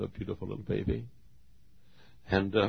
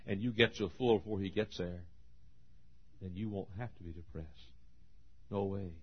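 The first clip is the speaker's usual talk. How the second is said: hushed reassurance after climax; 8 dB quieter than usual. Real, not acted. Drops down after the shouted climax.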